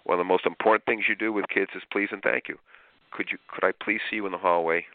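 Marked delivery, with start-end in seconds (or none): 3.1-4.9 polite request. Shown as a demonstration. Teacher politely asking a student into the hallway. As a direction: ask with please and courtesy.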